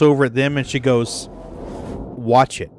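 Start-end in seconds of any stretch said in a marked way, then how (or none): 1.3-2.7 deadpan warning with no give; level, understated mock threat. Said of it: "just as flat and deadpan".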